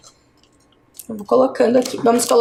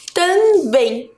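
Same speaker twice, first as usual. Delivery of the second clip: "também" split into "tam" and "bém", pitched higher; sounded-out syllables; 5 semitones higher than usual. Shown as a demonstration. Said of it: "Qual é a sílaba mais forte de também?". ("também" silabado e bem articulado)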